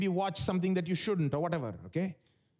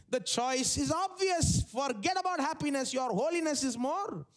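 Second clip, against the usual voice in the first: higher-pitched, emphatic pulpit insistence; imitated preacher; 5 semitones higher than usual. Preachers urging holiness over happiness, imitated emphatic preaching. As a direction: lightly mimic a preacher pressing the point. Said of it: "some preachers will preach like this".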